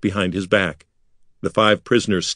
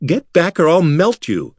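higher threatening cry; threatening shout; 8 semitones higher, 4 dB louder than usual. A narrator's reading. Wizard Bekla threatening the metal creatures, shouting. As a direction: warn them off with a threat.

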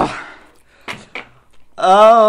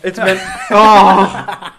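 talking with a numb tongue; words slurred by burning spice; 4 dB louder than usual. Real, not acted. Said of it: "I can't move my tongue".

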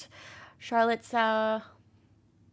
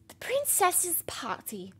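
princess voice. Acted. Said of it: "I like my princess voice".

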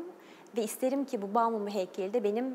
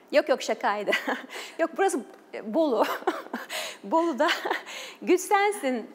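laughing between short, raised phrases; amused laughing; 5 semitones higher, 4 dB louder than usual. Real, not acted. Guest admits to the host it was a joke, amused laughing. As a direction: take back the joke through real laughter. Joking about where photo was taken.

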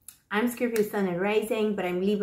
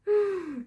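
sharp gasp; 9 semitones higher than usual. Real, not acted. Sees the next card.

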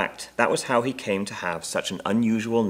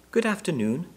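high little bear voice; small, clear voice; 9 semitones higher than usual. A narrator's reading. Bear politely greeting the Browns, small clear voice. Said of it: "in a small, clear voice".

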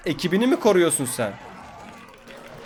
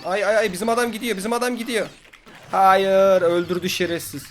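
high, louder cries of alarm; 4 semitones higher, 3 dB louder than usual. Real, not acted. Gamer watching his ally get killed, alarmed high cries. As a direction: cry out as your man goes down.

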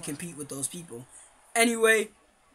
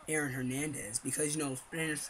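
talking while chewing gum; 4 semitones lower, 8 dB quieter than usual. Real, not acted. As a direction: mouth busy with gum. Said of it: "wow, I'm chewing gum".

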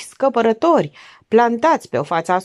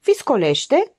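higher, mildly startled question; frightened question; 6 semitones higher, slower than usual. A narrator's reading. Guest at the snowstorm news, mildly frightened. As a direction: ask with a touch of alarm. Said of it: "se ridică speriată".

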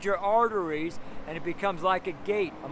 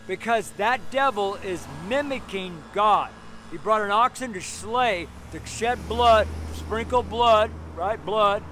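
preaching; 3 semitones higher, 5 dB louder than usual. Real, not acted. Preaches at full force.

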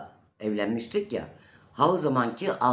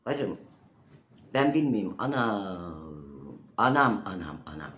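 lament; 2 semitones lower, slower than usual. Real, not acted. Lamenting her fate.

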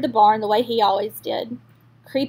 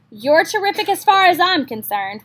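sweet; 6 semitones higher, 3 dB louder than usual. Acted. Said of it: "replied Charlotte sweetly".

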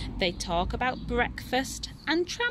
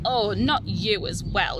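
mild exasperated call; a touch of a fed-up shout; 5 dB louder than usual. Acted. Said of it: "shouts Nora".

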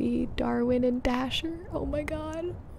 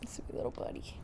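whispering; 13 dB quieter, faster than usual. Real, not acted. Soothing dog softly.

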